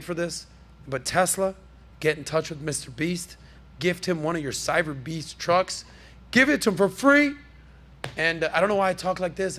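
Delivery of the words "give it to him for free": a light Trump voice, pitched up and pushed out; Trump impression. Podcast host half-doing Trump while urging Tesla to gift a truck. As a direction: slip into a hint of Trump pitching a deal. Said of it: "I'm talking like Trump right now".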